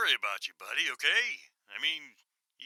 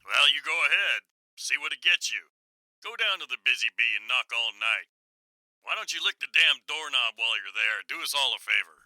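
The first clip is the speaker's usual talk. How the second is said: loud, bitter snapping at a friend; angry outburst; 5 dB louder than usual. Acted. Bob snapping at Roy about the closed coffee shop, angry and loud. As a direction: let the anger spill over, louder and louder. Friends quarrel over the pandemic.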